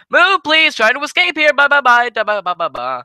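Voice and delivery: high, loud rushed plea; frantic fleeing yell. Retold or imitated. Wrestler barging past a backstage performer, high frantic yell. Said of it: "He would say".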